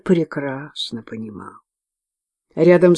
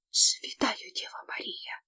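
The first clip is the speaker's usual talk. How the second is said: breathless frightened whisper; hushed gasp to the Virgin; babbled whisper; 6 semitones higher, 15 dB quieter than usual. A narrator's reading. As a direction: whisper it in awe and terror. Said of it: "пролепетала она".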